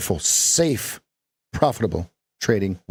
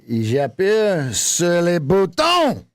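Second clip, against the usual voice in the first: surprised at the end; mock French delivery; 6 semitones higher, slower than usual. Shown as a demonstration. Coach hams up French sentence. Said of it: "how Americans think that French speak".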